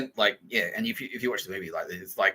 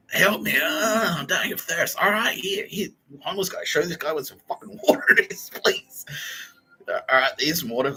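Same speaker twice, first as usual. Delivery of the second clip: mock high plea; 6 semitones higher than usual. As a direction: ham up a desperate plea. Acted high plea and reply.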